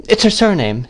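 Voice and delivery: ordinary delivery, nothing marked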